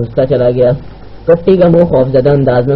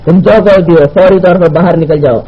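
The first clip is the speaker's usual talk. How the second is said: raised voice; 3 semitones higher, 3 dB louder than usual. Acted. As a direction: order an unseen person out, projecting somewhat. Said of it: "Fayyaz نے بلند آواز میں کہا". (بلند آواز میں)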